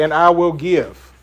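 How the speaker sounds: slow, I weighted and falling; slow, leaning on I, God as the doer; stress on I. Shown as a demonstration. Teacher counting God's promises, slow with I pressed. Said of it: "how many times God says".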